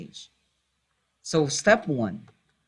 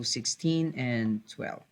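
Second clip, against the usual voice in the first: corrected, said slowly and deliberately; slow down and set the record straight, one number at a time; teacher fixing a slip, slowly; slow careful correction; slower than usual. Shown as a demonstration. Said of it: "Sorry about that".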